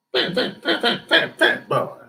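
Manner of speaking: giggling through the word fat, high; laughing. Acted. Laughing while teasing the man outside the window. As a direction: chuckle it out.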